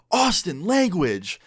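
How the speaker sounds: high, sharp reprimand; scolding teacher. Retold or imitated. Teacher reprimands student for swearing, imitated scolding.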